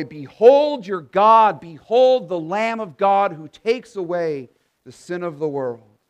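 slow, loud Behold, then easing down; prophet's proclamation. Acted. John the Baptist announcing the Lamb to the crowd, loud and slow. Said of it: "shaggy-looking prophet who says".

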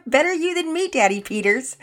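high, loud, tickled mom; wife's high-pitched amused comeback. A narrator's reading. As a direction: toss it back merrily after a laugh. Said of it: "Mama Peters laughed".

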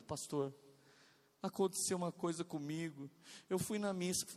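soft, subdued imitation of a tearful woman; retold tearful confession. Woman confiding in her pastor after service, tearful. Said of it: "ela veio chorando".

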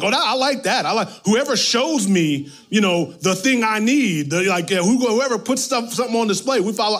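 a hint of a fickle crowd grabbing the easy option; eager crowd. People voiced eagerly choosing.

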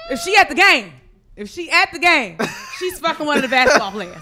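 laughing through the words; cracking up while talking. Real, not acted.

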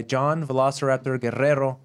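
Guerrero with a trilled double R; rolled r. Shown as a demonstration. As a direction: roll the R in Guerrero. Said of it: "I appreciated the double R roll".

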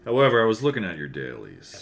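evil cartoon German accent. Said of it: "evil cartoon German".

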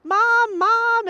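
high, loud shout for mother; acted frantic boyish holler; calling out. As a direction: yell urgently to your mother. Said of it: "Calls to his mother".

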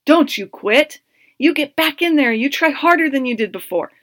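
inner coach voice. Retold or imitated. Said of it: "So I'd say".

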